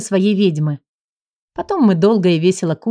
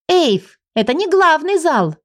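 put-on indignant girl; 7 semitones higher, slower than usual. A girl correcting the house spirit, higher indignant protest. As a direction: object like a cheeky little girl. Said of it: "возмутилась девочка".

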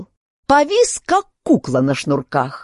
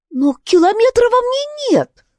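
put-on much higher girlish voice, indignant; Alice protesting. Alice protests to the king in a high girlish voice. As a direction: object like a young girl, pitched up.

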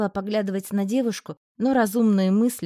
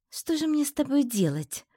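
pensive drawl; 7 semitones higher than usual. A narrator's reading. To the pinned roommate, pensive and slow. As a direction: muse it aloud, drawing it out. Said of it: "задумчиво протянула я".

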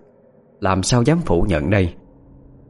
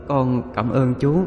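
slow, lightly voiced ghost boy; small ghost-child murmur; 3 semitones higher, 4 dB quieter, slower than usual. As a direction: give tiny, drawn-out thanks like an eerie child. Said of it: "câu cảm ơn lý nhí đó". (giọng bé ma cảm ơn lý nhí)

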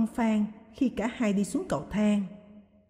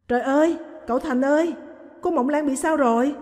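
loud, high cry of alarm; panicked cry; 5 semitones higher, 3 dB louder than usual. Acted. Maid crying out for the young master, panicked and loud. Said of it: "kêu lên thất thanh".

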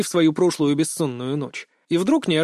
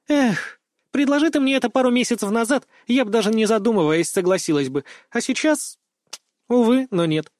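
put-on higher girl voice, a touch wistful; regretful girl; 6 semitones higher than usual. A narrator's reading. Girl refusing date, mildly regretful. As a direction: let him down gently.

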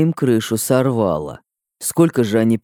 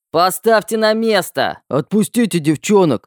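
shouting guys; 7 semitones higher than usual. A narrator's reading. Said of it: "недовольные крики парней".

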